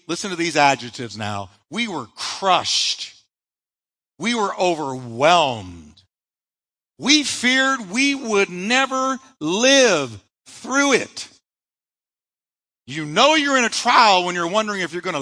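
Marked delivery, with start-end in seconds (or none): 1.7-11.3 grave reading. Acted. Paul's words read slowly.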